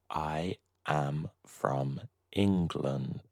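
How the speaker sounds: a whispered repeat for the learners. Shown as a demonstration. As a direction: say the same sentence again in a whisper.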